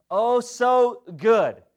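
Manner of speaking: dreamy sweetness. Retold or imitated. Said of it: "just gonna be sweet Jesus".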